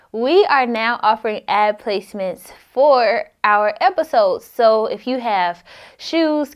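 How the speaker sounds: ad read. Acted. Inserted ad read.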